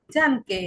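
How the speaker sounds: "ডানকে" with the A said as an open "ah"; German pronunciation. Shown as a demonstration. Teacher showing learners a German example word, German pronunciation. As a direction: say "ডানকে" as DAHN-keh, demonstrating. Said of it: "এর উচ্চারণ হবে আ এর মতো".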